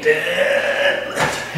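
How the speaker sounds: whispered spooky chant; breathy ghostly whisper; spooky Halloween voice. Pretend. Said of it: "somebody has Halloween on the brain".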